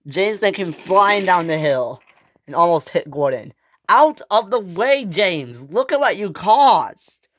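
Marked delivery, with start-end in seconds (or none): 3.9-7.3 loud, raised-pitch telling-off; indignant, high, loud outburst; angry scolding. Acted. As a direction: order him aside and blame him. Gordon scolds James after near crash.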